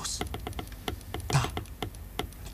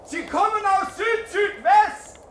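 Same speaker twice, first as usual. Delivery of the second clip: calling out. Acted. Spotting the planes, calling out.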